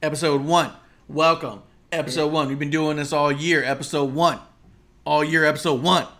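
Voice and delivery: barking each episode one; aggressive announcer. Acted. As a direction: hype it up with aggression. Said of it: "Why are you saying it like that?".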